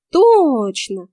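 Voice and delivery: loud showy burst of joy; mock-delighted exclamation; theatrical delight. A narrator's reading. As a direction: overplay the happy realisation. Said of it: "картинно обрадовалась я".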